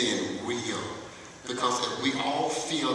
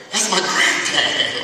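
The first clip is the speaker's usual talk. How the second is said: laughing; 6 semitones higher, 6 dB louder, slower than usual. Retold or imitated. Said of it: "I heard one say".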